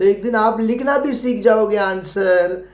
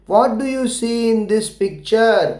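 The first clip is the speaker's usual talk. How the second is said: slow read-aloud question; much slower than usual. Shown as a demonstration. Teacher reading the worksheet question to children, slowly. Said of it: "क्या पूछ रहे हैं यहाँ पे देखिए".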